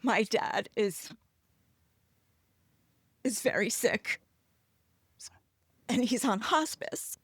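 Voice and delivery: upset, halting with long pauses; holding it together while getting upset; very emotional. Real, not acted. Daughter telling of her dad in hospice, emotional and halting. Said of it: "this is why I'm being very emotional".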